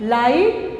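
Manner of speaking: लाइट with no sound for GH; silent GH. Shown as a demonstration. Teacher showing pupils a silent letter, GH unsounded in लाइट. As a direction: model लाइट, leaving the GH silent. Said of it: "जीएच silence word".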